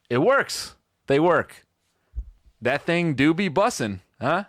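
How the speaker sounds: lightly voiced cringey dad, trying to sound cool; a hint of a try-hard father; mock Gen X parent. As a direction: play the dad awkwardly bonding with his son.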